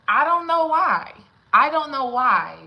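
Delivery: loud, punched don't; loud emphatic exasperation. Real, not acted. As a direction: hit don't hard.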